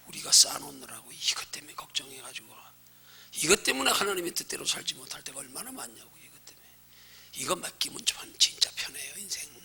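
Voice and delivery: soft, whispered confession; hushed preaching. Acted. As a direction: drop to a whisper.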